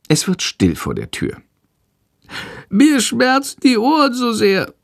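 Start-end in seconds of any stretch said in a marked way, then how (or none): 2.7-4.7 very high sick bat voice; meek whining. A narrator's reading. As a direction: whimper it in a tiny animal voice. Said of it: "jammert die kranke Fledermaus ganz kleinlaut". (kleinlaut jammernd, ganz hoch)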